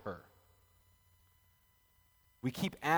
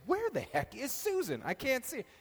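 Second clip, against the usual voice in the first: searching for Susan; 11 semitones higher than usual. Retold or imitated. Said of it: "I kept saying".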